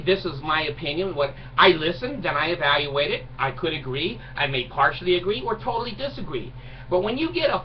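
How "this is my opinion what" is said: lightly imitated polite man offering an opinion; courteous. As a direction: say it like a reasonable neighbour.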